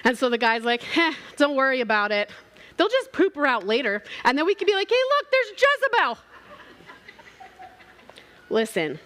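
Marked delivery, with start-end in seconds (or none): 0.8-6.2 mocking rider quip. Rider joking about the dogs.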